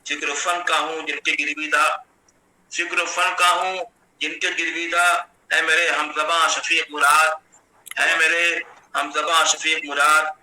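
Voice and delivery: steady, metrical mushaira delivery; Urdu poetry recitation. Acted. Poet honouring the academy's head at an online mushaira, measured poetry recitation. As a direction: recite the verse in measured phrases, resting on the refrain.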